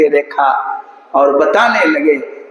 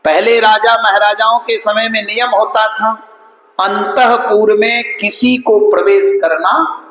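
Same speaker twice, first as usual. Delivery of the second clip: higher, sustained storytelling tone; preaching narration; 9 semitones higher than usual. Real, not acted. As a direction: recount it in a raised preacher's chant-like pitch. Preacher narrates at raised pitch.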